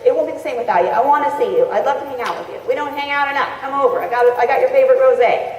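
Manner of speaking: bright, eager phone invitation; excited, friendly invite. Shown as a demonstration. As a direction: make them feel wanted, upbeat.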